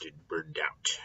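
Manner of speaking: hushed, worn-out whisper. Shown as a demonstration. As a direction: drop to a weary whisper. Teacher describing Koheles burned out in old age.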